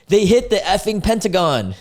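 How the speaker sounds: high-pitched mock panic; all-caps mock yell. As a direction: read it as a frantic breaking-news text. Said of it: "this is in all caps".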